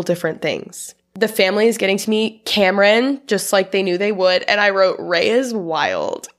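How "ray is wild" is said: slow, laughing through the note. Real, not acted. A host laughing at her own note. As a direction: laugh while reading it out.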